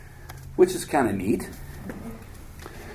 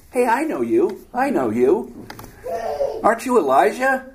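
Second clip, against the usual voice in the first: excited recognition; 8 semitones higher than usual. Acted. Obadiah excitedly recognizes Elijah.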